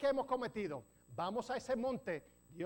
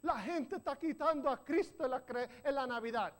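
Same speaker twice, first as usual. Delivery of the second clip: mock complainer; 3 semitones higher than usual. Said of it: "Y dice".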